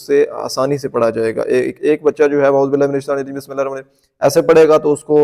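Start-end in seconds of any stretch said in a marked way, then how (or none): 2.5-4.2 rushed recitation. Shown as a demonstration. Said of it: "نہ اس کو سمجھ آئے گی".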